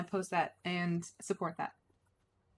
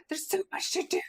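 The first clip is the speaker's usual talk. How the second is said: hushed whisper; 7 semitones higher than usual. Real, not acted. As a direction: whisper it to yourself. Whispers during game.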